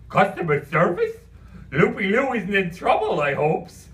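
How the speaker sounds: a daft clown getting nervous; worried Cockney clown. Acted.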